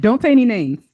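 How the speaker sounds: firm warning. Real, not acted. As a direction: say it firmly, cutting them off before they blurt names. Emphatic instruction to audience.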